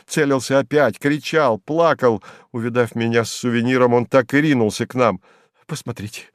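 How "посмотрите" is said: high, panicky shriek; a frightened landowner shrieking at the crowd; shrieking Slyotkin. A narrator's reading. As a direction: squeal it out in alarm. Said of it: "завизжал он".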